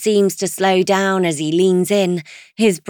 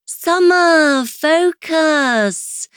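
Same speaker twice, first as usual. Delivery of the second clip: high, sharp call for attention; impatient friend; 9 semitones higher, 3 dB louder, much slower than usual. Acted. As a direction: snap her back to the present. Chloe snapping at daydreaming friend.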